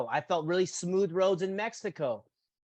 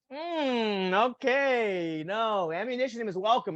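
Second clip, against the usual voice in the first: higher, mock-agreeable then dismissive; sarcastic retort; 4 semitones higher, slower than usual. Answering the politician about ammunition, higher sarcastic retort. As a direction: humor him, then flatly refuse. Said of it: "And you're like".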